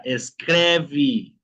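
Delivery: "escreve" ending in a vee sound; final E as I. Shown as a demonstration. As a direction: model "escreve" as es-KREH-vee. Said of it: "Siguiente palabra".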